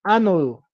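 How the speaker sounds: "ánodo" stressed on its opening A; stress on first syllable. Shown as a demonstration. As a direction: lean on the A that starts "ánodo". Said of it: "con tilde en la A".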